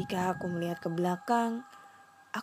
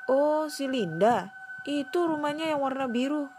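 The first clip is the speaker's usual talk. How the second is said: put-on old man voice; 7 semitones higher, 3 dB louder than usual.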